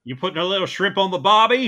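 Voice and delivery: a bad tourist's Aussie accent; mock Australian accent. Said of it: "our flawless Australian accents".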